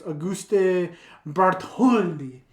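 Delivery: put-on slow name in a French accent. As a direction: say it the French way, Auguste Bartholdi. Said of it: "That was a really good French accent".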